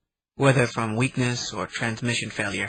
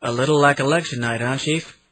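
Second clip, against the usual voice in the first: hearty. Acted. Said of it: "Martinez said heartily".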